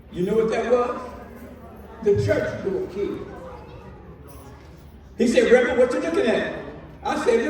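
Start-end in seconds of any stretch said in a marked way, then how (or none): 5.5-6.5 lightly voiced deacon.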